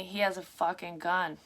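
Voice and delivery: ordinary talk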